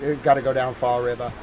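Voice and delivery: quick demo of Boston accent. Shown as a demonstration. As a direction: drop the R's like a Bostonian. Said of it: "The Boston accent would be saying".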